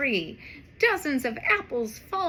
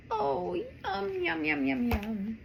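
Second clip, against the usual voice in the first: yum yum; 4 semitones higher, 4 dB quieter than usual. Pretend. Reader voicing cats drinking milk.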